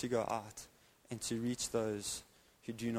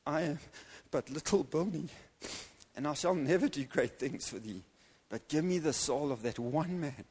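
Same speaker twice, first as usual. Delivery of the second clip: Bilney's prayer; 2 semitones higher than usual. Pretend. Prayer repeated, slower, higher.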